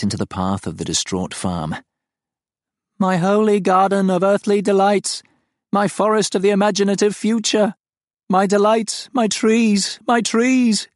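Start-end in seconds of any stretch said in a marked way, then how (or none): 3.0-9.1 high, loud, wailing alien lament; keen over the dying garden like a strange beast; anguished creature voice, much higher and louder; grieving alien creature. Acted. The farm laments its trees. 9.1-10.0 high, loud lament leaning on my; anguished alien wail; wailing creature. Acted. The farm laments its trees. 10.1-10.9 higher, loud lament stressing my; wailing creature, rising. Acted. The farm laments its trees.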